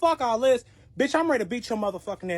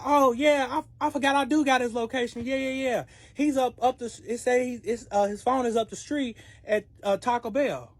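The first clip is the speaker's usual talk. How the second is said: a lightly voiced chatty friend blurting it out; eager friend; 4 semitones higher than usual. The friend answers on the phone.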